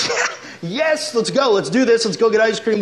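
put-on high, eager kid's yes; excited kid. Little sisters cheering to big brother, excited and high. Kids excited for ice cream.

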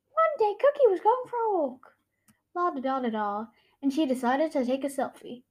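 hammed-up comic reading with voices; wild unhinged ranting. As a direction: act out the comic wildly. Reads her childhood comic aloud.

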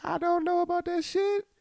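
high, loud disbelieving comeback; mock outrage, high and loud; incredulous retort. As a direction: fire back at the stranger. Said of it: "I'm looking like".

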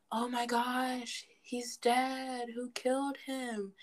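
lightly hammed-up whodunit gasper; murder mystery character. Parodying a typical murder mystery movie, mock shocked. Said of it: "murder mysteries where it's like".

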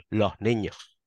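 "los niños" as "loh niño", s aspirated; western Andalusian plural. Shown as a demonstration. A western Andalusian showing his plural: aspirated s. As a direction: breathe each s in "los niños" as h, western style.

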